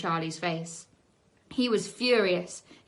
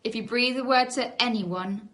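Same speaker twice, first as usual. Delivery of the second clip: threatening. Acted. Charlie threatening Tina and Trevor, slow. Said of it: "he threatened".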